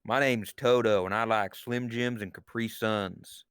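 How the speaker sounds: slow lightly Southern impression of Toto; imitating Toto. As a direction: slowly drawl it like a country girl. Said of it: "That's what she sounds like".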